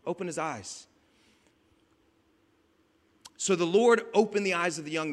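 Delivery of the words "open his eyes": casual, low-key request, softer; calm. Acted. Elisha praying casually for his servant, calm. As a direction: say it coolly, without any urgency. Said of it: "Elisha just calmly says".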